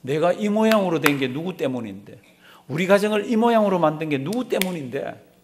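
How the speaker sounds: half-acted outburst of a bitter father; angry father. Father lashing out at his daughter, mildly angry retort. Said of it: "화를 내기 시작합니다".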